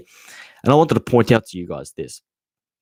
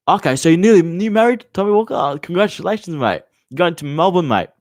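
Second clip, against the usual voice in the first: surprised; 7 semitones higher, 3 dB louder than usual. Real, not acted. Surprised by a viewer's news.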